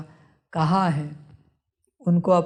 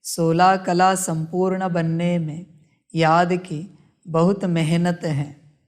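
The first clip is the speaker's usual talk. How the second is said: slow, weighty quote of Baba's words; lightly voiced Baba, drawn out and firm; deliberate slow emphasis quoting Baba. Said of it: "बाबा कहते हैं".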